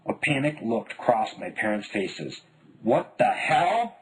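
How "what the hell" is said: muttered. A narrator's reading. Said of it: "my father muttered".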